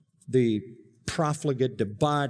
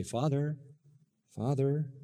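respectful address; 7 dB quieter than usual. Shown as a demonstration. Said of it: "You say".

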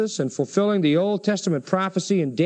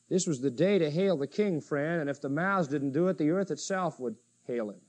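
softer, low-key restatement; subdued reflection; 3 semitones lower, 5 dB quieter than usual. Real, not acted. Preacher reflecting on the day to hail the King, subdued. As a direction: bring it down and reflect softly. Same declaration repeated in hushed reflection.

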